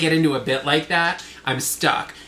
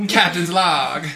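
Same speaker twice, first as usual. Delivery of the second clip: lightly voiced actress as starship captain; a hint of a film-star impression; Katharine Hepburn; slower than usual. Podcaster replacing Janeway's dialogue, lightly as Katharine Hepburn. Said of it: "a Katharine Hepburn impression".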